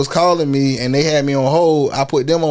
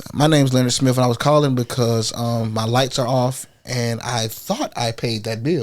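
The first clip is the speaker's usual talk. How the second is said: professional voice; 4 semitones lower than usual. Shown as a demonstration. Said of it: "give me your professional voice".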